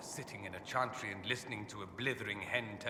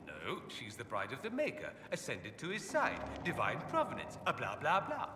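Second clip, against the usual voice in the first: dismissive mock quote. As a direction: brush it off with mock boredom. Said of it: "they say".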